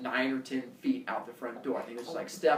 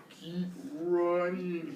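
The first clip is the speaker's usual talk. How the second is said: slow urgent plea; 2 semitones higher, 4 dB quieter, much slower than usual. Retold or imitated. Urgent whisper to brother.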